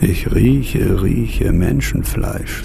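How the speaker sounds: slow ogre sniffing line. Acted. Ogre quote from fairy tale.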